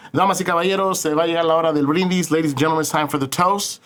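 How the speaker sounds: lightly hammed-up party MC; party announcer. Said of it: "as I'm doing the little announcements".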